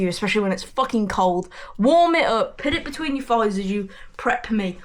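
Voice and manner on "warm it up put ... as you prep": raised, pleading demand; a touch of a begging patient; mock demand. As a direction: hit WARM hard and high. Pleading to nurse about cold.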